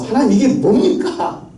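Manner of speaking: high-pitched, argumentative complaint to God; resentful protest. Retold or imitated. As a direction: act out Moses arguing back, voice pushed up. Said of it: "하나님에게 따지고 원망하면서".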